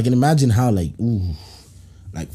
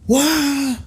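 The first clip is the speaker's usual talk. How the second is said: a much higher, stretched-out what; genuinely thrown by it; shocked what; 13 semitones higher than usual. Real, not acted. Hearing the brother slept in it, high shocked what.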